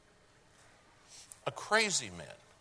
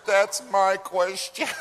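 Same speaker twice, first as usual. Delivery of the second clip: dry retort; 8 semitones higher, 8 dB louder, slower than usual. Retold or imitated. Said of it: "I said".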